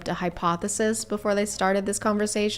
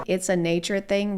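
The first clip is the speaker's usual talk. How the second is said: mocking quote. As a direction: throw their words back with disdain. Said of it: "I don't think".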